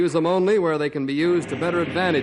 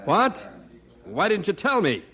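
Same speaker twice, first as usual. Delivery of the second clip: alarmed; 4 semitones higher than usual. Acted. Captain alarmed dog is wounded.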